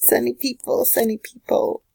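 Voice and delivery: high, playful sing-song; sing-song sunny. Pretend. Greeting Libra viewers, high and sing-song. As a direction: chirp it brightly like a greeting. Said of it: "sunshine people".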